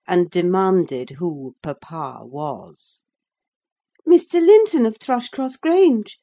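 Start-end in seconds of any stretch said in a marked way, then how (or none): 4.0-6.2 put-on higher, louder bright young girl; eager girl Cathy. A narrator's reading. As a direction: call out like a lively girl on the moor. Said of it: "she replied".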